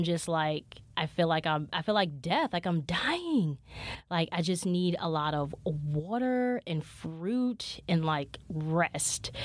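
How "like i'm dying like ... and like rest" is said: slow, drained and worn out; exhausted. Real, not acted. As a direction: drag the words out, running on empty. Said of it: "I am so tired".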